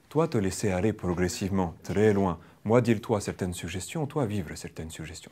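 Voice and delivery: slow pidgin French in a put-on Russian accent; mock Russian accent. Shown as a demonstration. Trainer keeps mocking a Russian hypnotist, Russian accent. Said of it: "je t'hypnotise avec un accent russe".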